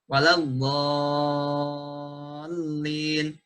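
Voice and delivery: "waladhdallin" sung slowly with the long vowel cut short; shortened mad. Shown as a demonstration. Teacher chanting a wrongly shortened mad for students. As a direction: chant "waladhdallin" but clip the six-beat mad. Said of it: "mengurangi kadar mad pada lafaz".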